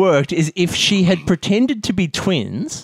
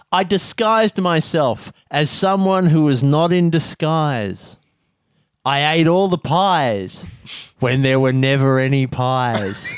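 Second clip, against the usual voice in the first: poem recital; 2 semitones higher than usual. Pretend. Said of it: "I got a poem that I wrote".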